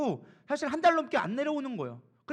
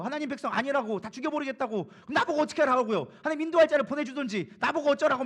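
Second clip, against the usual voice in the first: arguing back. Acted. Preacher voices Moses arguing with God, mock indignant protest. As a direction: argue your case, pressing harder as you go. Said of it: "막 이렇게 따지고 있는 거예요".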